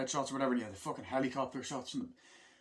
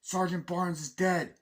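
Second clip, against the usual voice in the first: mock radio report; 7 semitones higher, 6 dB louder, slower than usual. Soldier reporting over radio.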